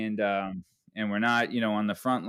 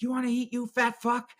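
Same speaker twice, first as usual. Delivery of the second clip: mocking dad taunt; 11 semitones higher than usual. Dad hitting him again.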